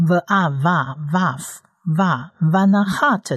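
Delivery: slow, syllable by syllable vava, vaf, va; slow sounding out. Shown as a demonstration. Teacher slowly builds the syllable for students. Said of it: "所以是".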